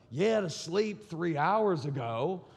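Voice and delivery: slow, drawn-out comeback; mock sarcastic wife. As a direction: stretch the retort with weary sarcasm. Tired wife's comeback to husband.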